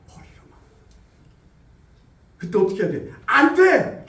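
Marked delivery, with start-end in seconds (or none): 0.1-0.6 머리로만 breathed without voice; whispered echo. Acted. 3.2-4.0 high, loud cry of no; shouted refusal. Acted. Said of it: "하고 외치라는 거예요".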